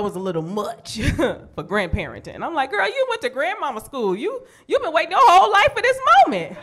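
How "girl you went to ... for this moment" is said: high, coaxing mock plea. Pushing the granny to babysit, high coaxing mock plea. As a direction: sweet-talk her high and eager.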